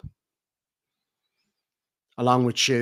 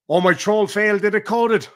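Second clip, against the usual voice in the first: mocking quote; 6 semitones higher, 6 dB louder than usual. Mocking the rival's words.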